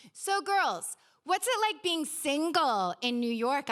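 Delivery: single drawn out slowly and weighted; a slow question with single underlined; stress on single. A narrator's reading. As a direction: lean on the word single, unhurried. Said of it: "emphasizing the word single".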